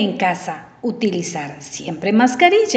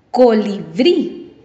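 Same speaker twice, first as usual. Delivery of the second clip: "Colibrí" slowly, BRÍ lifted and lengthened; stress on last syllable; slower than usual. Shown as a demonstration. Teacher gives an example ending in a vowel, "Colibrí" stressed on BRÍ. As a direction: lean on the final BRÍ of "Colibrí". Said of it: "Esta lleva la fuerza de voz".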